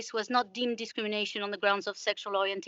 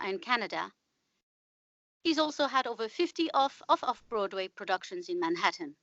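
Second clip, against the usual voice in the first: measured, scripted host read; radio introduction. Acted. Host introduces a playwright to listeners, radio introduction. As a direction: introduce the guest crisply from a script.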